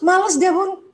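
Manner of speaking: a hint of a teen brushing off mum, slowly; sulky teen.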